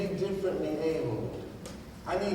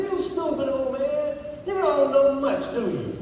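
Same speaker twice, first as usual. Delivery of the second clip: louder, higher exasperated city slicker; exasperated insult; 6 semitones higher, 6 dB louder than usual. Acted. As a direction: snap at the old man in frustration. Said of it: "He was exasperated by now".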